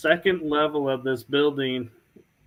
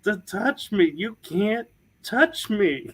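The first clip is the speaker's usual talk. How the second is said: slow, laughing taunt, pitched higher; mocking taunt; 3 semitones higher than usual. Taunting the spirit that tried to grab her, slow laughing mockery. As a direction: tease it slowly through a laugh.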